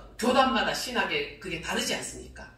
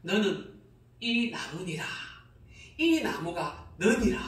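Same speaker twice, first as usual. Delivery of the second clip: voice of God; 3 semitones lower than usual. Retold or imitated. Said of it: "하나님이 설명을 해요".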